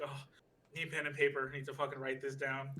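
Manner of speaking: loud, excited rush to grab a pen; sudden idea, say it loud and urgent; waking up struck by an idea; excited realization. Retold or imitated.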